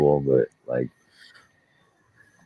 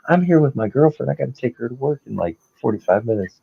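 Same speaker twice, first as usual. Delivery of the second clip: much higher, whiny imitation of the driver; mocking whiny guy; 10 semitones higher than usual. Repo man mocking the driver to his cohost, high whiny voice. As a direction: play the car guy as a high, pouty whiner.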